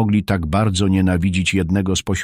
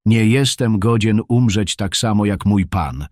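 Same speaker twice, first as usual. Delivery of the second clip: mild loud call; 2 semitones higher than usual. Acted. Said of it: "zawołał donośnym głosem Piotr".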